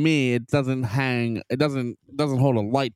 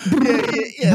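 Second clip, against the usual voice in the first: laughing; 12 semitones higher, 5 dB louder than usual. Real, not acted. Laughing at own bit.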